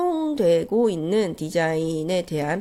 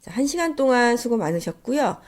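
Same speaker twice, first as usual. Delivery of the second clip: stuffy nose; 2 semitones higher than usual. Real, not acted. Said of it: "감기에 걸린 코맹맹이 소리로".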